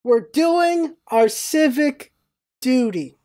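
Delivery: slow, word-by-word echo with pauses; slow disbelieving repeat. Retold or imitated. Bystander replaying pedestrians' answer, slow and disbelieving. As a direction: draw it out, letting the absurdity sink in.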